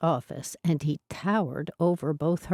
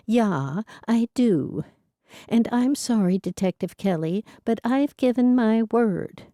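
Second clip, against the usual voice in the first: put-on raised, firm voice of an elderly lady holding her ground; apologetic but resolute, a touch higher; Etty, old heroine; 5 semitones higher than usual. Etty refusing Detective Kelly because she gave her word, firm.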